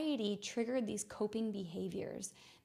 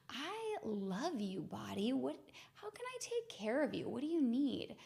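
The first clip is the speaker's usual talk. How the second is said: loving self-talk; 3 semitones higher than usual. Retold or imitated. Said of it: "loving, nurturing".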